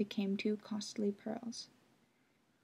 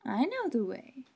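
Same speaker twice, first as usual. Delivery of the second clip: Night's voice; 3 semitones higher than usual. Acted. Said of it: "said the woman in the black garments".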